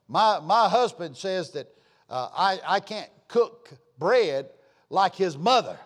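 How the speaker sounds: a drawn-out, aggrieved wife's complaint, slowed; a hint of a put-upon wife; whiny wife complaint. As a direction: plead like a wife who's been criticized.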